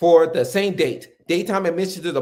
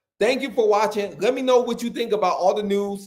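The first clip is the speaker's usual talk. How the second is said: usual speaking voice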